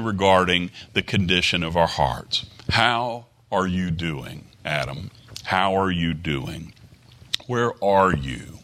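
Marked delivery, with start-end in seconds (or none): 2.7-6.7 soft, slow, gentle asking, "Adam" drops very quiet; tender calling. Acted. Preacher voicing God gently asking Adam how he is, soft and tender. 7.5-8.6 gentle question. Acted. God calling Adam, first take.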